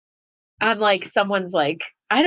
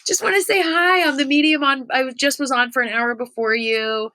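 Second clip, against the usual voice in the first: eager fan; 5 semitones higher than usual. Retold or imitated. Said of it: "I felt like such a nerd".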